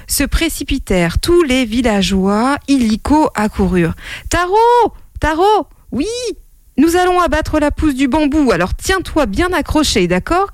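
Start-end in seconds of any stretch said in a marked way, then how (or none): 4.3-10.5 high, urgent calling up; shouted call. Acted. Father calling up to his son, high shouted call. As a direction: call up to someone far above. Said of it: "cria le père".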